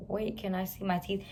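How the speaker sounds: talking with a numb mouth; words slurred through numbness. Retold or imitated. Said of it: "it's so hard for me to talk 'cause I can't feel my mouth".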